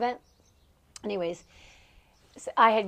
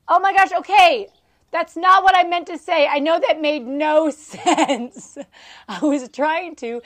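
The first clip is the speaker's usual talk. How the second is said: laughing through it; 7 semitones higher, 10 dB louder than usual. Retold or imitated. Laughing apology to confused family at the table. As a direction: explain while still cracking up. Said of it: "I said".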